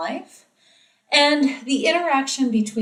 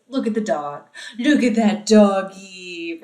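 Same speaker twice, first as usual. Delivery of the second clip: put-on simple baby talk; 3 dB louder than usual. Shown as a demonstration. Teacher showing simplified words to a baby. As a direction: point out the doggy to an infant. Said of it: "I might say".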